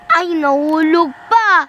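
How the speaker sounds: loud high yelp; screaming while falling. Real, not acted. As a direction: cry out in dismay. Falls again. (sigaw habang nahuhulog)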